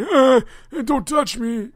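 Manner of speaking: high, loud protesting voice; flustered customer. Acted. Customer fending off the clerk's hug, high panicked protest. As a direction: squeal it like a panicked old customer.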